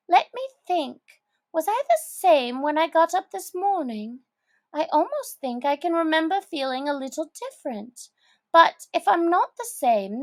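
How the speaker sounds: put-on high girlish wondering; lightly voiced Alice, ending hushed; Alice puzzled. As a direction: ask yourself in bewilderment.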